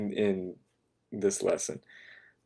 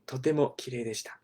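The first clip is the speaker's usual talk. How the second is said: とてもきれいでした read fast and quiet like a textbook line; stiff textbook Japanese; 3 semitones higher, 8 dB quieter, much faster than usual. Shown as a demonstration. Teacher mocking textbook Japanese to the class. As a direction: rattle off the stiff textbook phrase. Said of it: "It sounds very textbook Japanese to me".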